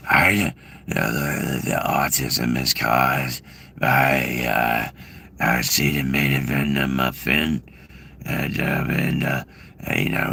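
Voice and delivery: lightly done RFK voice; a hint of RFK, slow; RFK impression. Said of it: "and that's my R F K".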